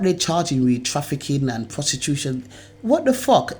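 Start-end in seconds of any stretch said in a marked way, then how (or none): 2.8-3.6 sudden high, indignant what the fuck; outraged outburst. Real, not acted. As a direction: burst out in disbelief. Ranting about the charges.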